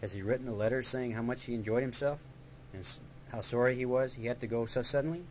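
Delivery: lightly voiced fussy Rabbit asking; a hint of a worried busybody. A narrator's reading. Rabbit questioning Christopher Robin, lightly voiced fussy tone. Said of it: "he went on".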